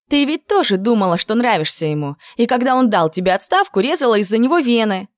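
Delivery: high, bright-voiced girlfriend lamenting; girlish lament.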